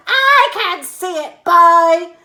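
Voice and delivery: high, loud granny; high loud old woman; Grandma shouting back. A narrator's reading. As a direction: shout down to George. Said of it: "shouted back".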